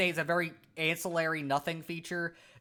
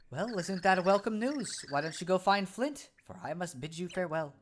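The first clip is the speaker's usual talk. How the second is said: calm wise pixel. Acted. Pixel answering the startled Cragnon, calm sage voice. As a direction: speak like a serene little oracle.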